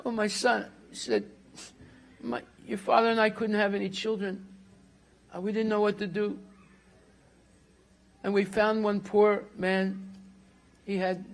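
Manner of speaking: a touch of crying as she confesses; understated weepy admission; tearful confession. Acted. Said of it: "And she started crying".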